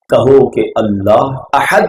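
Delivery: slow کہو کہ اللہ احد with a stretched احد; slow demo. Shown as a demonstration. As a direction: draw out احد clearly. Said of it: "مگر معنی پتہ کیا بن جائے گا".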